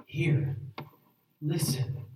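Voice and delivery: 「Hear.」「Listen.」を静かに、余韻をもって繰り返す; 聖句の後にそっと噛みしめるように; quiet reflective echo. Shown as a demonstration. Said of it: "You shall write them on the doorposts".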